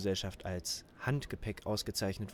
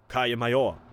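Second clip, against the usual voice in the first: blecherne Lautsprecherstimme; scheppernde, laute Durchsage; ring modulator; 7 dB louder than usual. Acted. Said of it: "Eine blecherne Stimme". (blecherne Durchsage)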